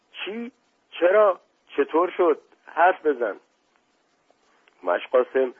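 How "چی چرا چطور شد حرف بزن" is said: high, startled short questions; shocked questioning. Acted. Guests press the servant for news, high shocked questioning. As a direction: demand answers in sudden alarm. Stunned crowd questions the messenger.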